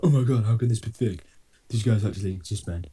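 outraged viewer voice; mock outraged commenter. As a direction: play an indignant commenter.

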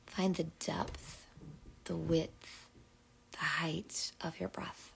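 measured breathing-exercise voice, long pauses; guided breathing. Acted. Host invites listeners into big full exhales, guided breathing. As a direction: coax each breath along, phrase by phrase.

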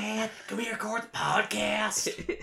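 high, slow cartoon whine, held on the last word; Bobby. Guest as cartoon son calling dad to the podcast, high and drawn out. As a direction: stretch it out in a high put-on voice. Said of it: "that was my impression of Bobby".

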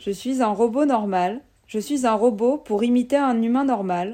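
stiff, bad robot voice. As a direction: talk like a clunky android. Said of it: "avec des voix de robots nuls".

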